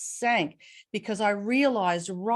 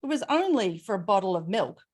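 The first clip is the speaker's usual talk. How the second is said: flippant; faster than usual. Retold or imitated. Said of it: "flippantly responded".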